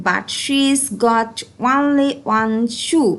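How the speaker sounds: very slow, careful rhyme reading; slow read-aloud. Shown as a demonstration. Teacher reading a rhyme to learners, very slow. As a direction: read the rhyme slowly for the class to follow. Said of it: "I read out these two lines".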